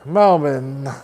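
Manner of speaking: Melbourne with a swallowed "bn" ending; Australian local pronunciation. Retold or imitated. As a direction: try Melbourne as "MEL-bin", no R. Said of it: "that's how we say Melbourne".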